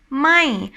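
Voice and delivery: "mai" lifted, then dropped; falling tone. Shown as a demonstration. Teacher naming the word most learners know, falling tone "mai". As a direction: raise "mai" briefly and let it fall. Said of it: "it's falling tone".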